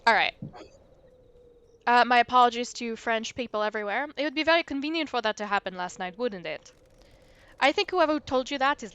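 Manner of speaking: lightly put-on French accent; a mild French lilt as the ghost; a hint of a French accent. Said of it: "stuck in a French accent".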